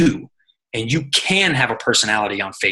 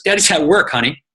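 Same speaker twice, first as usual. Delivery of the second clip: mom soothing; 4 semitones higher, 3 dB louder than usual. Retold or imitated. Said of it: "she goes".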